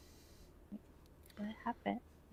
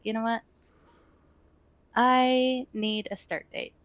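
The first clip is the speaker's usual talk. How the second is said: decisive self-talk; 3 semitones higher, 4 dB louder, slower than usual. Pretend. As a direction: announce it like a firm decision.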